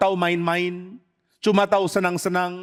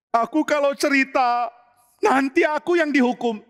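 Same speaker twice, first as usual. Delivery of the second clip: Tamar, afraid; 7 semitones higher than usual. Acted.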